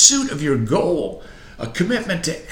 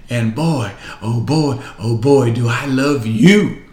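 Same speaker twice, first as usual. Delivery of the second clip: louder and louder, slow on the last words; building declaration; 6 dB louder, slower than usual. Real, not acted. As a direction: build it up to a loud proclamation. Preacher declaring love to audience.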